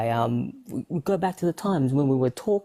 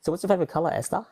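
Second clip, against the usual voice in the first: put-on higher-pitched English accent; 4 semitones higher, much faster than usual. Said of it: "with that accent".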